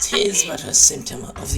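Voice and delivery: laughing quote. Pretend. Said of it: "repeating the mock quote laughing".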